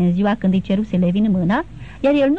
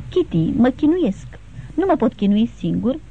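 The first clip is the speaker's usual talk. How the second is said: a groom breaking down before his bride, lightly voiced; despairing outburst; 2 semitones higher than usual. Levin to Kitty, confessing his torment in mild despair. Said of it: "izbucni el cu glas deznădăjduit".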